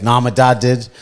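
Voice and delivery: lightly mimicked loud talker; loud bank manager. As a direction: retell it in a mildly loud voice. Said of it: "Loud as fuck in the bank".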